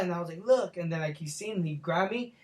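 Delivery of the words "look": retold scream. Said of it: "So then I start screaming".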